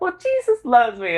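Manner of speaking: high-pitched imitation of her; devout sweet woman. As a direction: lift it high, imitating a happy believer.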